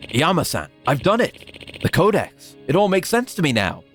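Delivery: put-on old man voice.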